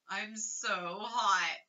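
slow, drawn-out sick mumble; feverish mumble. Acted. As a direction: drag each word out like a feverish child. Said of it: "mumbled Keith".

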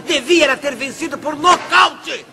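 shouting in anger; angry shout. Acted. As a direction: yell it out, furious. Angry boss rants over lost bet.

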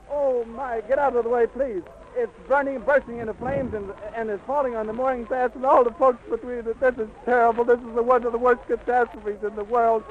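high, strained, anguished report; horrified. Real, not acted. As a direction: let the horror crack through every word. Reporter witnessing airship crash.

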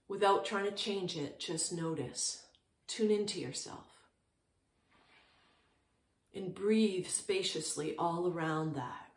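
calm, unhurried meditation guidance with long pauses; short, settled phrases with room to breathe; guided meditation. Real, not acted. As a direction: guide listeners gently into stillness, leaving space between phrases.

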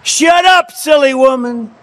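high, sneering snap with a grin; mock the woman, smirking; hammed-up sneering snake; grinning reptile. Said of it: "said the reptile with a grin".

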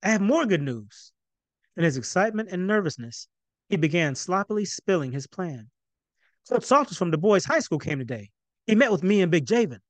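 rushed, eager news; blurted excitement. Acted. Excited son blurts news at dinner. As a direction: spill it out in one breath. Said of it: "Kamau blurted out".

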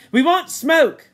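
high, loud, slow demand; demanding shout. Acted. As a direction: shout it slowly and insistently. Ralph demands smoke.

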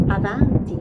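loud command to enter; calling out. A narrator's reading. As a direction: summon the visitor from the throne. Fairy calls visitor in.

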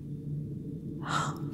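long, hushed breathy gasp; soft gasp. Acted. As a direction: draw a quiet, airy breath. Princess falling under mind control.

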